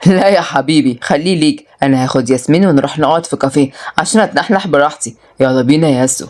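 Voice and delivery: lightly voiced man, low-pitched; low, casual male character; teasing suitor. Voices Murad retorting, inviting Yasmin.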